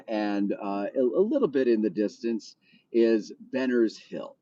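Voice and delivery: smooth tour guide announcer; radio voice. Pretend. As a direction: narrate the sights like a radio host. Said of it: "Let's hear a thirty-second tour in your radio voice".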